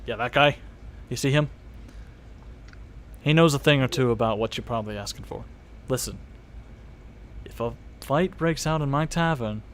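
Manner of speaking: low, guarded barkeep; lightly voiced bartender, wary. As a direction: warn a customer as the bartender. Game master plays bartender.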